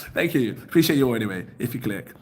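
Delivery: ordinary delivery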